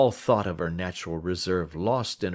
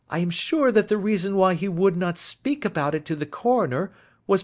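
put-on higher, earnest young woman; young woman pleading for her friend, higher and earnest; Miss Turner voice; 12 semitones higher, 3 dB louder than usual. A narrator's reading. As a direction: plead his innocence, pitched up and eager.

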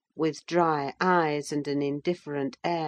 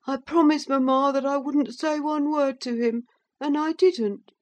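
much higher tearful protest; tearful boy; 10 semitones higher than usual. Acted. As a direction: whine it through tears. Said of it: "sobbed the youth".

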